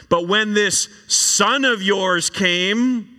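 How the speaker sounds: slow, bitter sarcasm; sneering at his father's favourite; sarcastic. Acted. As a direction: drag it out with contempt. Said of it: "hear the sarcasm".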